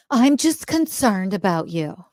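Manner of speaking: mock concern. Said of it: "their best friend".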